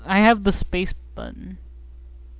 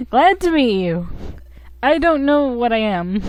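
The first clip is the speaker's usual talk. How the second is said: higher put-on game voice; creature introducing itself; 6 semitones higher, 5 dB louder than usual. Partner introducing itself to the stranger, higher creature voice. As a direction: lift the pitch for the little partner. Voicing game dialogue as Bopsicle.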